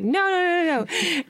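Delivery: put-on repeated no, drunkenly cross; drunk protest. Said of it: "And I was like".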